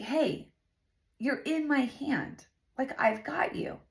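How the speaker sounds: soft, tender comfort fading into a near-whisper; gentle reassurance from God. Retold or imitated. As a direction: reassure softly, as God comforting someone upset. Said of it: "God was just showing me".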